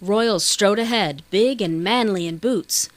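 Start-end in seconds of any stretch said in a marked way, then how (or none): none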